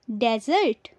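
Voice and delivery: "desert" as DEZ-urt; wrong pronunciation. Shown as a demonstration. Teacher quizzing learners with the wrong form, "desert" as DEZ-urt. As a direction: open "desert" on a short e, DEZ. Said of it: "इसे डेजर्ट कहते हैं जो गलत".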